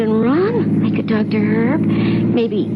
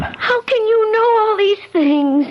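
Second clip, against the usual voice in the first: frightened; 9 semitones higher than usual. Acted. Frightened wife questions Mort.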